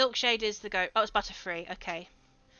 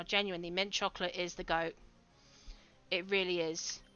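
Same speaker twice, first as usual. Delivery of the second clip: softer, mock-earnest sincerity; serious voice; 4 semitones lower, 6 dB quieter than usual. Shown as a demonstration. Convincing a friend about mint chocolate, in a mock-serious voice. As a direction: put on a solemn face-value voice. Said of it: "I'm using my serious voice now".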